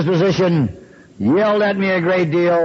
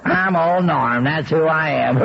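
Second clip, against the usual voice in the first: slow, mocking imitation of his boast; wife mimicking him; 3 semitones lower, slower than usual. Wife mocks her drunk husband's boast, slow and mocking. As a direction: drawl out I'm old Norm mockingly. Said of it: "she would mimic me".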